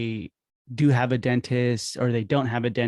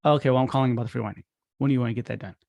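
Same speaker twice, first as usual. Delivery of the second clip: rattled off fast and offhand; bored, just getting it over with; flat rushed delivery; much faster than usual. Shown as a demonstration. Wrong way to call the patient, fast and flat. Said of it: "Don't just say".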